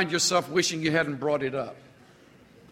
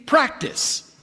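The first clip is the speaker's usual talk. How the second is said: slow, drawn-out quote, practice stretched; preacher slowly quoting the apostle Paul; Paul quoted slowly; 3 semitones higher, slower than usual. Retold or imitated. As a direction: hand down Paul's charge with weight. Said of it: "Paul has the audacity to say".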